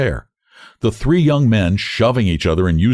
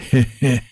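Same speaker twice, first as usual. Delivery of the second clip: a short laugh; 4 semitones higher than usual. A narrator's reading. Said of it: "He laughs".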